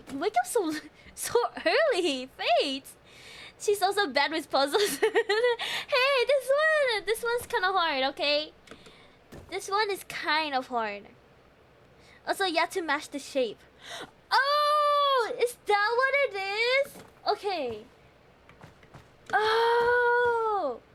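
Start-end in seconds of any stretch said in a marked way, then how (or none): 0.1-2.9 laughing. Real, not acted. Teasing viewer, laughing. 5.0-8.5 laughing protest. Real, not acted. Laughing excuse over puzzle. 14.3-16.9 high, loud realization; sudden aha, cried out; surprised cry. Real, not acted. Realizes the rule, cries out. 19.3-20.8 drawn-out oh. Real, not acted. Long held realization.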